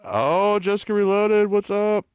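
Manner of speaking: high-pitched put-on Indian greeting; Indian accent. Streamer greeting a raider while still in high Indian accent. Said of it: "I should stop my, uh, Indian accent".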